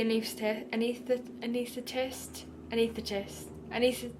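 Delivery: trying out "anaesthetist" syllable by syllable; unsure pronunciation. Real, not acted. Unsure how to say the anaesthetist's job title, halting attempts at "anaesthetist". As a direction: stumble over "anaesthetist", hunting for how it goes. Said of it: "I don't know".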